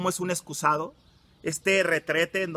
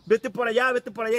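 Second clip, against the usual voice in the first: heart shouting; 5 semitones higher than usual. Retold or imitated. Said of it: "tu corazón te está gritando".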